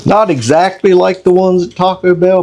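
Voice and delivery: talking through a mouthful of food; chewing while speaking; mouth full. Real, not acted. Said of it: "Sorry, trying to talk with my mouth full".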